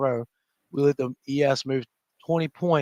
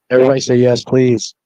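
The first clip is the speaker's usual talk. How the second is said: calling out; 12 dB louder than usual. Real, not acted. Calling the audience to respond.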